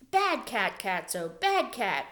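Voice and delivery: scolding a naughty cat, loud; scolding shout. Acted. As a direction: tell the cat off sharply. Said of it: "he heard her shout".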